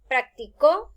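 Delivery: practicó slowly, landing loud on CÓ; stress on last syllable. Shown as a demonstration. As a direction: say prac-ti-CÓ with weight at the end. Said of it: "la posición de la tilde".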